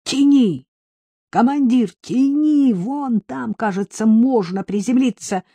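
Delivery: high-pitched urging, not at full volume; urgent cry. A narrator's reading. Co-pilot urging the pilot to land, high urgent cry. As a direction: call out high and urgent, stretching the short commands. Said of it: "И крикнул".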